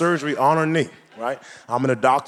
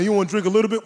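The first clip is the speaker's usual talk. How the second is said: higher, fast teasing mimicry; mocking the friend; 6 semitones higher, much faster than usual. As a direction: rattle it off higher like a pushy buddy. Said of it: "Come on, man".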